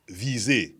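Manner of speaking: "vise" said as vee-zay; local pronunciation. Shown as a demonstration. Quoting how people mispronounce it, "vise" as vee-zay. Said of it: "understanding the proper pronunciation at first".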